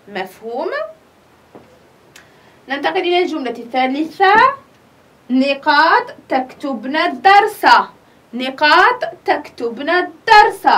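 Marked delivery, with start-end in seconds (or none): 5.3-10.7 نقاط تكتبن الدرس read slowly, word by word; slow dictation. Shown as a demonstration. Teacher reading the exercise sentence to pupils, slow and clear. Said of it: "هذا الفعل تكتبن".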